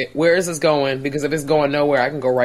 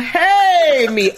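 goofy cameo; 7 dB louder than usual. Pretend. Imagined Matthew Lillard cameo.

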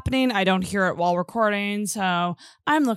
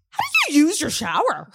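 sheepish retold question; 6 semitones higher, faster than usual. Retold call to the front desk.

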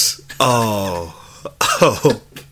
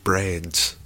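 slow, groaning zombie moan; 5 semitones lower, slower than usual. Pretend. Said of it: "Did you do a zombie one?".

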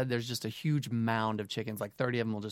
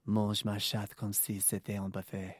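sexy voice; 3 semitones lower, 3 dB quieter than usual. Shown as a demonstration. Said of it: "read it all, like, in a sexy voice".

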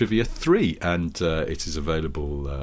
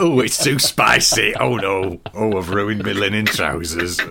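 whiny tourist; 4 dB louder than usual. Retold or imitated. Mock tourist complaining about spicy food.

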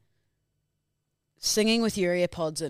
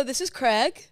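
American accent mock; 7 semitones higher, 4 dB louder, slower than usual. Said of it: "what, they go".

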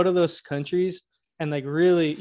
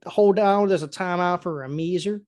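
Southern accent. Shown as a demonstration. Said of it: "You can't really talk like this too long".

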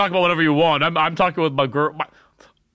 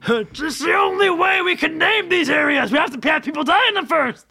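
mock grave explorer; 12 semitones higher than usual. Grim explorer pronouncement.

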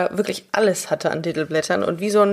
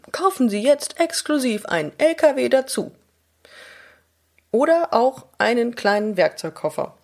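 upbeat TV commercial announcer, pitched up; chipper 1950s ad; 3 semitones higher than usual. Pretend. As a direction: sell it like a cheesy toy ad. Mock Barbie TV ad pitch.

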